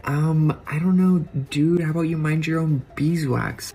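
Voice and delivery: mock sassy retort. Retorting to TurboTax in skit.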